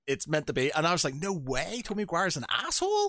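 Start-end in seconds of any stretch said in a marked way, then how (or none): 1.2-3.1 mildly shocked disbelief, rising in pitch; incredulous. Retold or imitated. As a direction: act out mild disbelief, pitch climbing. Acts out own shocked disbelief.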